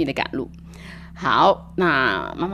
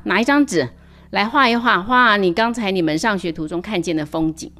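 a bit louder, brisk classroom teacher; lightly voiced teacher; 5 dB louder than usual. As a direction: rush the class to start drawing. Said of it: "这个老师就说：". (老师对同学们说话，略大声、轻快的老师腔)

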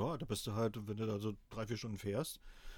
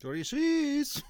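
loud, high backwards-spoken words; backwards speech; 13 semitones higher, 6 dB louder, much slower than usual. Shown as a demonstration. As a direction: shout it reversed, high and loud. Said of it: "berühmten rückwärts gesprochenen Worten".

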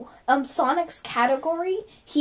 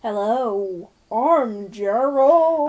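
slow put-on Gerald voice; much slower than usual. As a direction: introduce yourself in a silly character voice. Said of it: "you don't have to change your voice".

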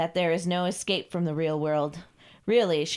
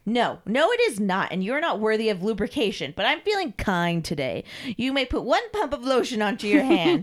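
haughty, condescending dominatrix; imperious mistress; 4 semitones higher than usual. Acted. Mistress grants Carl a small mercy, condescending. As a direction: grant a small favour grudgingly.

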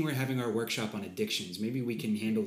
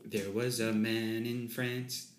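flat, slow monotone line; much slower than usual. Pretend. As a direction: drone it with no tune. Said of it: "Sorry, I'm quite, uh, monotone".

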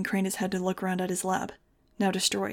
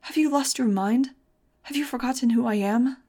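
higher, louder indignant shout; outraged demand; 4 semitones higher, 5 dB louder than usual. Acted. Doctor scolding the boy who grabbed him, outraged.

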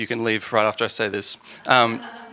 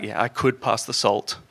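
smartass sibling; 2 semitones lower, 4 dB quieter than usual. Retold or imitated. Annoying sibling dodging the salt, a lightly voiced smug tone. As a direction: play it dry and literal to annoy. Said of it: "they're like".

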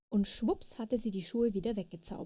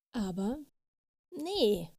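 little fairy refusing at the top of her voice; light storybook shout; 2 semitones higher, slower than usual. A narrator's reading. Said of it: "schrie die kleine Fee".

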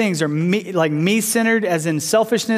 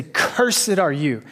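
very slow, grave "Cursed are you"; solemn pronouncement; much slower than usual. Acted. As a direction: weigh every word. Alternate scripture translation read out.

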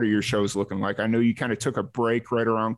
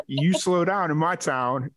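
higher-pitched imitation of a Southern small-town cop; Southern accent; 5 semitones higher than usual. Cop warning a speeding dad, mock Southern accent. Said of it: "his little Southern accent".

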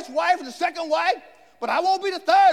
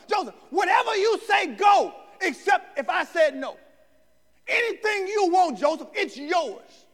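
Pharaoh booming his permission with a raised voice; generous king shouting; 3 semitones higher than usual. Retold or imitated. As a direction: call it out big and open-handed. Pharaoh grants Joseph everything.

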